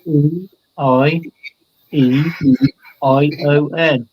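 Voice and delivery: "E, I, E, I, O, N" said letter by letter, spaced apart; spelling out vowels. Shown as a demonstration. Asked on air to spell a singer's vowels, letters one by one. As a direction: read each letter out slowly, one at a time. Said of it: "please say out loud the vowels in a singer's name".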